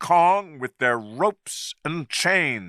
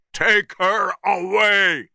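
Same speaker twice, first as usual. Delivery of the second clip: higher, loud barked order; shouted; 8 semitones higher, 3 dB louder than usual. A narrator's reading. Captain shouting at the young man to take her, loud. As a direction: command it over the noise. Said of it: "looked at Jack and shouted".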